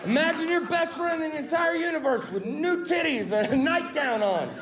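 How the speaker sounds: shouted order to the crowd; mock-bossy shout. Real, not acted. Comic ordering the crowd to imagine it, shouting. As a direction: bark it at the audience like a drill sergeant. Forcing audience to picture it.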